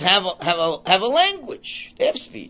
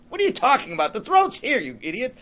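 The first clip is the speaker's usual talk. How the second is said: mock scoffing; 4 semitones higher than usual. Acted pupil scoffing at singing teacher.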